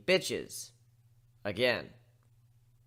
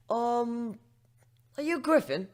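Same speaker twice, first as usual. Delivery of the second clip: higher, hesitant pony voice; shy pony; 10 semitones higher, slower than usual. Acted. Young journalist waking the griffin, shy and hesitant. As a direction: ask timidly like a young reporter.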